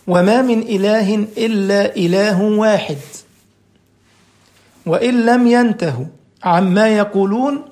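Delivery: slow, measured scriptural recital; Quran recitation. Acted. Preacher quotes God's word to the congregation, slow solemn recitation. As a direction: draw out each phrase of the verse.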